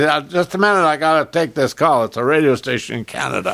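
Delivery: mock-urgent cabbie, high then settling; retold urgent excuse. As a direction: excuse yourself loudly, half laughing. Retelling cabbie taking radio call.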